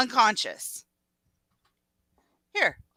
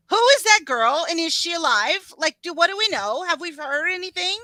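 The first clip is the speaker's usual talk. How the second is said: higher-pitched, worked-up urgent questions; freaking out; 6 semitones higher than usual. Real, not acted. Streamer demanding answers about a frightening clip, freaking out. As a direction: fire off alarmed questions. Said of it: "I'm freaking out over here".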